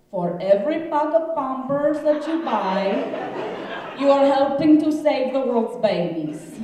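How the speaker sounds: high, loud Spanish-accented impression; Salma Hayek. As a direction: exaggerate a Mexican actress's accent in an ad read. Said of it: "I can do my Salma Hayek accent".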